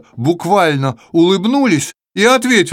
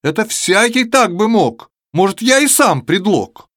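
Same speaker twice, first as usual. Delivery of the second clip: shouting; 4 semitones higher than usual. Acted. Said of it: "В кричит".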